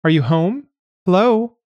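high nasal calling, climbing at the end; nasal caller. A narrator's reading. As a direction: call through a door, high and nasal. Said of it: "called a nasal voice".

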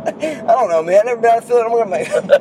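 light impression of a nervous Charlie; half-laughing mock Charlie, fretting; a hint of a worried Charlie; imitating Charlie. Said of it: "The way Charlie said that".

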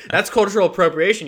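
hammed-up indignation; mock offended. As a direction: act outraged at the insult. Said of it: "mock offence at leprechaun".

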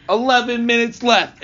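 loud, high shouted countdown, imitated; retold stand-up bellow; Bill Burr. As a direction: call out the time like a ranting comic. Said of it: "and he's like".

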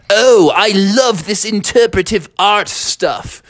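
lightly voiced sister gushing over art. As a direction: swoon over the modern art. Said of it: "And she was like".

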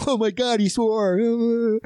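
lightly voiced scandalized child; a hint of mock shock; shocked kids. Imitating kids in the cinema, lightly shocked. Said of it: "kids that were around me were kinda like".

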